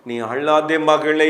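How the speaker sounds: slow, tender reassurance; affectionate consoling. Acted. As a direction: draw it out to comfort a daughter. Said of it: "என்று கர்த்தர் பட்சமாய் பேசுகிறார்". (பட்சமான, நிதானமான ஆறுதல்)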